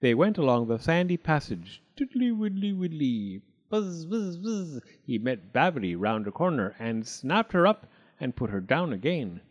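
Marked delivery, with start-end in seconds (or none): 1.9-4.8 a greedy toad guest, all fawning thanks; high singsong toad; Mister Jackson the toad. Acted. Toad among the bees.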